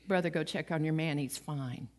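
quiet, easy comfort; calm him gently; soft reassurance. Acted. Jesus reassuring the Roman soldier, softly.

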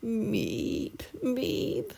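high little bird peeps, then a fretful sigh; worried chirping. A narrator's reading. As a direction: peep like an anxious sparrow. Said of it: "he chirped".

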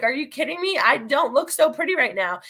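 scoffing, dismissive doubt; unconvinced girlfriend waving off a compliment, scoffing; eye-rolling disbelief. Retold or imitated. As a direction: brush off the compliment with an eye roll. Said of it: "rolling my eyes".

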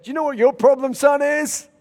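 put-on loud, high challenge as the old preacher; confronting prophet. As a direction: call him out loudly, imitating a prophet. Prophet confronts him, acted.

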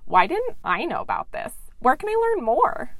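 hammed-up listener gushing to the host Grace; mock excited listener. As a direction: play an overexcited fan who can't believe they missed this. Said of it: "I know what you're all saying".

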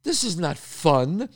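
hammed-up disbelief, slow and high; mock outrage. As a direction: act incredulous at the nerve of him. Retold outrage at friend.

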